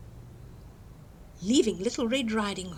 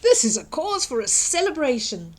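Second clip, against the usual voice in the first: exclaiming; 3 semitones higher, 5 dB louder than usual. Acted. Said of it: "exclaimed Grandma".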